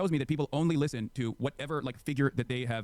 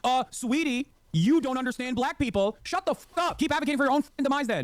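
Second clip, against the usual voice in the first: high, loud, sassy mock of a black woman; 9 semitones higher, 3 dB louder than usual. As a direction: mimic a condescending black woman, much higher and louder. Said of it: "Why is he mimicking a black woman's voice?".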